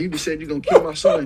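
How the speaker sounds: high, loud laughing disbelief. Retold or imitated. Laughing retort at intruder.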